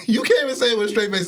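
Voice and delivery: fast, laughing tease. Real, not acted. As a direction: laugh while calling out. Laughing at friend.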